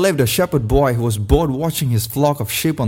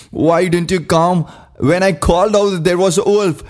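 mildly angry, higher-pitched reproach; angry question; 5 semitones higher than usual. Acted. Weeping boy reproaching the villagers, mildly angry. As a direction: ask with a touch of anger, pitched up. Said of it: "he asked angrily".

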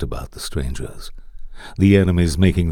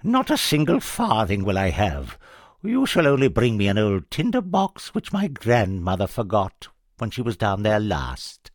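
put-on higher cackly old witch; 5 semitones higher than usual. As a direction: play the sly old witch. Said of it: "replied the witch".

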